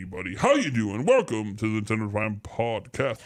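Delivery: electronically altered voice-changer voice. Greeting listeners through a voice changer made on the mixer: voice changer effect. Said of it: "That voice is not come with it. I made that".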